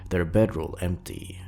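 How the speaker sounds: spooky story narration. A narrator's reading. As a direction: read it like a campfire horror tale, unhurried. Creepypasta read aloud.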